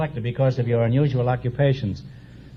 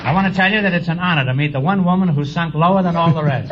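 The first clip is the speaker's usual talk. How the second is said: laughing; 3 semitones higher than usual. Real, not acted. Joke delivered with rising laughter.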